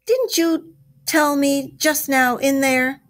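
high, slow, disbelieving question; acted storybook dismay; incredulous cry. A narrator's reading. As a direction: press him in astonishment, word by word. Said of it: "cried the Badger".

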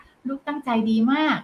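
very slow, stretched-out ลูกตั้งใจดีมาก; slow praise. Shown as a demonstration. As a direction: spell the praise out slowly for the child. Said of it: "แค่ขยับปาก...ก็ชมนะคะ". (ชมช้าๆ ลากเสียงทีละคำ)

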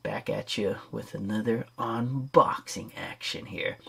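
nasal voice. Real, not acted. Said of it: "Sorry about my nose".

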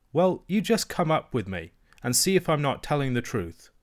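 a hint of a stubborn little girl; child princess. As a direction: dare her to come and see. Princess challenges nurse.

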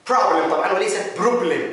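"problem" with an open "o" like "prablem". Shown as a demonstration. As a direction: open the o wide. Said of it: "ال O غالبًا ما يكون مفتوح". ("problem" بحرف o مفتوح)

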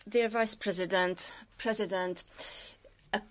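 ordinary talk, nothing marked

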